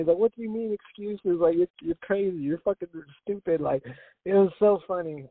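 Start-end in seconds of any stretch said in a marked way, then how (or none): 0.2-3.6 high, indignant imitation in an Italian accent; a lightly done Italian accent, protesting. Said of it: "he's Italian".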